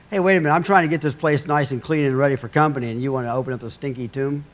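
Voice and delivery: a hint of an exasperated housewife, fast; lightly mock the busy hostess, rushing the words; fussy Martha. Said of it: "This is where a good Martha comes through".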